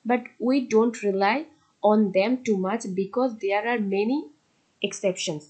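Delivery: reads the English rule out word by word; measured classroom read-aloud; slow textbook reading. Acted. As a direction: dictate it slowly to the class.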